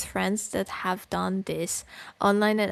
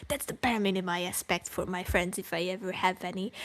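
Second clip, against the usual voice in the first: softer, fast throwaway; 1 quick aside; 5 dB quieter, faster than usual. Real, not acted. Streamer adding a quick softer aside. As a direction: rush it under the breath.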